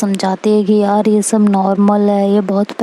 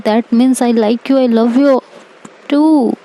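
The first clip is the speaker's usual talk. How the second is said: slow, higher, drawn-out love you too; tender confession; 4 semitones higher, much slower than usual. Retold or imitated. The girl confesses her love to Aaru, slow and higher.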